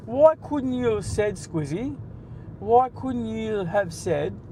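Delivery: slow, drawn-out mock reproach; mock scolding. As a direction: tease him like a prim teacher. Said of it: "a bit more class about us".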